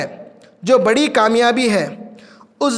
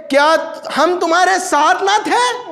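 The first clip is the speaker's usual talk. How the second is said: lightly shouted, higher-pitched appeal; acted crying out; 5 semitones higher than usual. Hypocrites appealing to believers they once knew, acted cry. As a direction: call the question out in a raised voice. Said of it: "چلا چلا کر کہیں گے".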